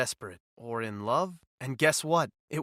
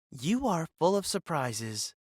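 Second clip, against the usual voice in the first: warm; 3 semitones higher, slower than usual. Acted. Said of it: "her voice warm".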